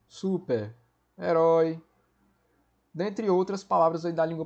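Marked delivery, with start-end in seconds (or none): 0.1-1.8 super-herói stretched very slowly, each part of super-herói held apart; slow, spelled out. Shown as a demonstration. Teacher repeating super-herói slowly so students hear the hyphen. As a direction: drag the word out so the hyphen is clear.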